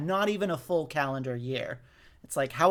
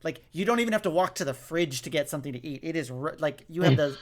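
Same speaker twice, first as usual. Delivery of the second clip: exasperated. Retold or imitated. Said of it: "And I remember being like".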